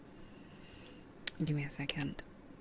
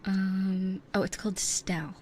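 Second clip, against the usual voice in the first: whispering. Real, not acted. ASMR whisper chat.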